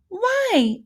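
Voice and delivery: put-on high rising child's why; curious question. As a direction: ask it like a puzzled little girl. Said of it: "Ada questioned".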